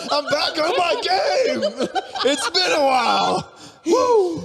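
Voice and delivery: laughing. Real, not acted. Laughing triumph.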